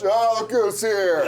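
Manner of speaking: slow, laughing mock dad; the dad greets the boyfriend, mock unimpressed; dad on the couch. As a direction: drawl it from the couch like a bored father. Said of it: "he's just on the couch".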